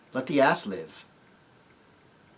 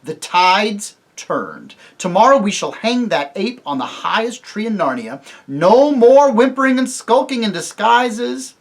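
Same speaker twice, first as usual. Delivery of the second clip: slow, louder triumphant declaration; rally the company; loud, rousing; 4 semitones higher, 8 dB louder, slower than usual. Acted. Tirian rouses his party aloud, no more whispering. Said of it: "not this time in a whisper".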